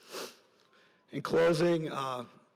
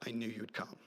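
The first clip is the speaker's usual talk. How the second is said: hushed dying words; 3 semitones lower, 11 dB quieter than usual. Retold or imitated. Dying soldier's last words.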